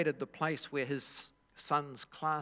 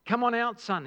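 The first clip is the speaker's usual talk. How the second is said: relieved; 7 semitones higher, 5 dB louder, faster than usual. A narrator's reading. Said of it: "he said with relief".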